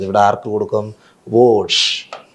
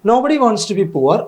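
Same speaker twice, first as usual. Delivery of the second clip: very slow, higher, word by word; teacher dictating an exam question; slow dictation; 9 semitones higher, much slower than usual. Shown as a demonstration. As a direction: read the question out for students to copy. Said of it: "നോക്കുക".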